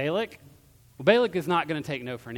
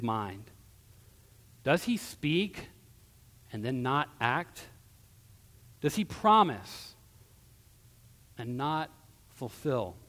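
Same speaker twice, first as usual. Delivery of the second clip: measured, declamatory reading with long pauses; scripture reading. Acted. Preacher reads Balaam's oracle to Balak, measured and declamatory. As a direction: proclaim it phrase by phrase.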